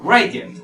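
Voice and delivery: front-stressed teaching model of Radiant; stress on first syllable. Shown as a demonstration. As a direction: lean on the start of Radiant. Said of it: "Mayor fuerza de voz en la".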